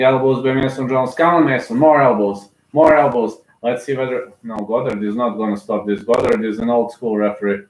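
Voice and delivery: running fight commentary, brisk and engaged; live play-by-play. Real, not acted. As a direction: call every strike as it lands.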